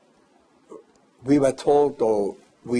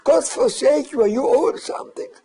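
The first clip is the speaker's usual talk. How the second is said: retold demand; 13 semitones higher, 4 dB louder than usual. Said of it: "And he said".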